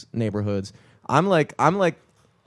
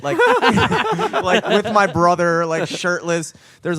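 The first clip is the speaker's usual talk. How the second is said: laughing; 5 semitones higher, 5 dB louder, slower than usual. Real, not acted. Laughing while telling.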